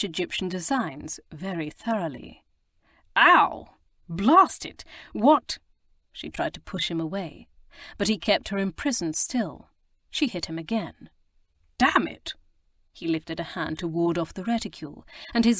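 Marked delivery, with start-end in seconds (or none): 3.1-5.6 high loud pained yelps; startled yelp. A narrator's reading. Lord struck by her reticule, high loud yelps. Hit over the head. 11.8-12.3 high sharp curse at the blow; pained curse. A narrator's reading. Lord hit a second time, high pained curse.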